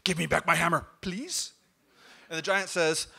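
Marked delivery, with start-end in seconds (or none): 0.0-0.8 demanding shout. Acted. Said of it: "bangs on the giant's door". 1.0-1.5 squeaky please. Acted. Tacked-on polite word.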